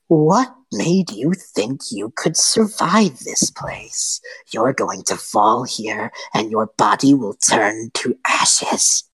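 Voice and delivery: drawn-out taunt, voice sinking low; slow menacing hag. Acted. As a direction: threaten him slowly like a witch. Hag mocks Rowan, slow.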